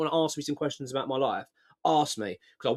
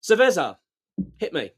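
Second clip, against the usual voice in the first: mock bar order; 3 semitones higher, 5 dB louder than usual. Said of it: "walk up and go".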